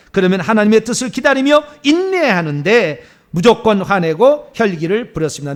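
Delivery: loud, insistent confession to God; measured phrases, pressed out forcefully; repentance prayer. Acted. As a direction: lead a congregation in fervent repentance.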